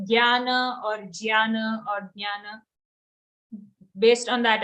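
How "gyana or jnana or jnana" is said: "gyana", "jnana", "jnana" as three different openings; vary the first consonant of "jnana" each time; contrasted pronunciations. Shown as a demonstration. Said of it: "do you say gya".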